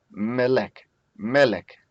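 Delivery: melek said twice, first syllable MEL stressed; Hebrew word demo. Shown as a demonstration. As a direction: repeat melek, leaning on MEL. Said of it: "this is the tone syllable".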